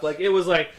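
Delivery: ordinary delivery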